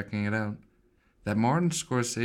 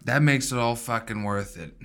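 a hint of put-on New York accent; attempted New York accent. Co-host sums up the bagel defence, lightly put-on New York accent. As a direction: lightly play the New Yorker. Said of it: "doing a New York accent".

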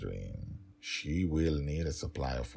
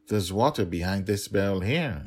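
higher, quick, incredulous brush-off; dismissive father; 4 semitones higher, 7 dB louder than usual. Acted. Dragon Father dismissing the nanny's worry, incredulous and quick. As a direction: wave her worry away, fast.

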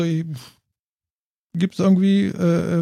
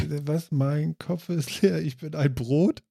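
softer, slow, spaced-out mumble; mock dazed; 7 dB quieter, slower than usual. Host admits his empty head, softly and slowly dazed. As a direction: play the blank-headed one.

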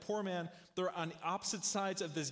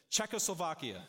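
laughing punchline; 3 dB louder than usual. Acted. Pastor telling the joke to the congregation, laughing punchline. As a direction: say the word through a laugh.

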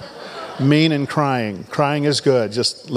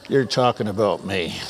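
mock accused listener; 5 semitones lower, 3 dB quieter than usual. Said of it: "You're all looking at me like".

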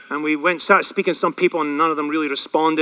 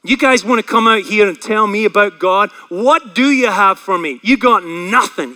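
loud, bitter challenge, retold; acted indignant outburst; angry; 5 dB louder than usual. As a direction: throw the questions out as angry accusations. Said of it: "He was angry".

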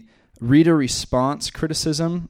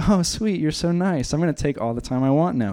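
naive misreading; 3 semitones higher than usual. Pretend. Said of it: "then we'll be like".

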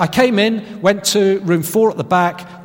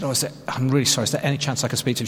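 retold apology, very fast and softer; hurried apology; 5 semitones lower, 5 dB quieter, much faster than usual. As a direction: rush through an apologetic phone request. Retold flustered apologetic phone call.

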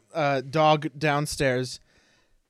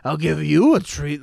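mock seductive; 4 dB louder than usual. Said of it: "weirdly seductively".

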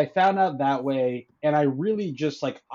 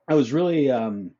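while sipping a drink. Real, not acted. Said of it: "I'm sorry, I'm drinking something".

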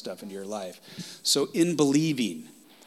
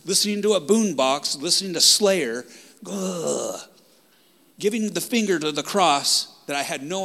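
raised, louder preaching voice, pitch up; heated; 5 semitones higher, 4 dB louder than usual. Real, not acted. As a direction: preach it hot and loud. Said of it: "Sorry, I'm getting a little heated".

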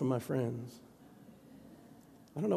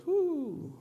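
retold sigh of "whoo"; imitated emotional "whoo". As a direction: let out a high whoo, as if moved. Imitates a musician's emotional exhale.

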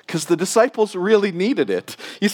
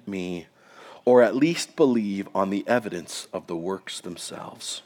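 solemn public reading of scripture. Acted. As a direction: read it aloud as holy text.

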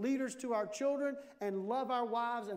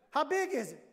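mock alarm, higher-pitched; raised, hammed-up refusal; alarmed husband; 5 semitones higher, 4 dB louder than usual. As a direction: play the husband balking in comic fright. Husband's acted alarmed reply.

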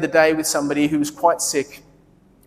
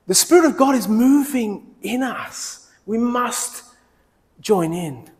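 high, slow, drawn-out proclamation; preacher's refrain, slowed and raised; emphatic sermon refrain; 5 semitones higher, slower than usual. Acted. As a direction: lift it and lean on every word of the refrain.

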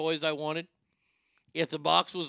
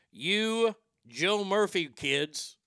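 retold yell; 4 semitones higher, 3 dB louder, much slower than usual. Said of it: "I hear this woman yell".

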